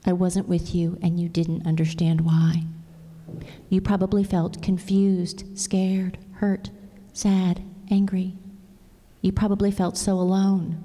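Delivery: put-on gentle storybook reading to a child; tender storybook voice for a child; reading a story aloud. Reads a picture book aloud.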